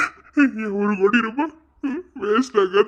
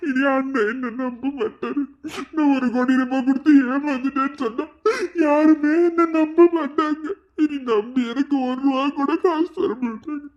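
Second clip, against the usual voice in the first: crying; 3 semitones higher than usual. Acted. Husband breaks down after being cheated.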